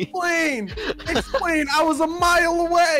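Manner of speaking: high, exasperated cry; indignant protest. Real, not acted. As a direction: demand an explanation in outrage. Protests being hit in game.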